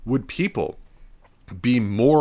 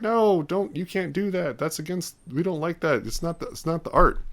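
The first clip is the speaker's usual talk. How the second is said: higher, pleading mock protest from the actors; mimicking protesting actors; 7 semitones higher than usual. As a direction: whine it like an upset actor defending art. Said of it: "and they're like".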